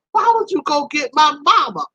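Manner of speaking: high, wailing mock complaint; mock crying protest. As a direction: plead it like an embarrassed drunk. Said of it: "Now I'm really crying".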